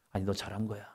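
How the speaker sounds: calm him down softly; soft reassurance. Pretend. God gently answering the angry preacher, soft. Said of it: "그 음성 들으면".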